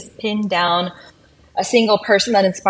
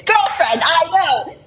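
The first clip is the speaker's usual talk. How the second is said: excited; 9 semitones higher, slower than usual. Real, not acted. Excited recall of favorite movie scene.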